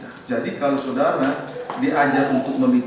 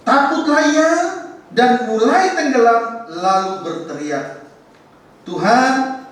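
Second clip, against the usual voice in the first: dramatic retelling; 8 semitones higher, 3 dB louder, slower than usual. Acted. Retelling Peter's fear.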